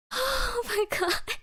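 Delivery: slow, high, strained laughing cry; tears of laughter. Real, not acted. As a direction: wheeze it out helplessly laughing. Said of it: "I start crying".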